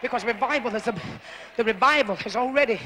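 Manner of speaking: low, intimate hushed sermon voice; hushed preaching. Acted. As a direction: bring it down to a murmur. Long hushed, intimate preaching passage.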